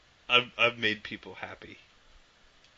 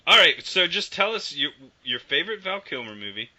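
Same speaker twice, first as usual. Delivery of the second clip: loud demand; 5 semitones higher, 4 dB louder than usual. Real, not acted. Demanding answers from guest.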